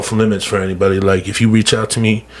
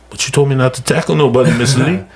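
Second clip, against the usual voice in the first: put-on kid's voice; 4 semitones higher, faster than usual. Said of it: "he goes".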